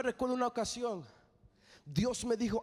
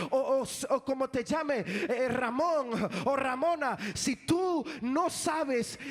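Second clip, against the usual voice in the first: raised, driving sermon voice; fervent preaching. Acted. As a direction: preach it to the congregation with fire. Preaching at full force to congregation.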